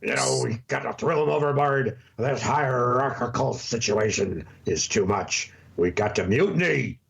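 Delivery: a hint of a gruff pirate captain. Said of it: "say it like a pirate".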